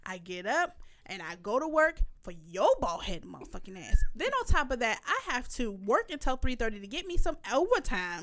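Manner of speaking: retold angry rant, emphatic and swinging in pitch; pissed-off telling-off. Mother telling off child who called her lazy, pissed-off rant. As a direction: act out a mother reading her child the riot act. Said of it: "I instantly got pissed off".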